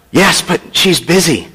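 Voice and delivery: put-on reply as a little, hushed child; whispering small child. Small boy telling his age to a caller, hushed child voice. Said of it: "a small voice whispered".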